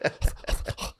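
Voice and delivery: voiceless puffed heartbeat noises; imitated pounding heart. Storyteller showing his heart after the fight, breathy thumps. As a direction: puff out a racing pulse. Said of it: "my heart's like".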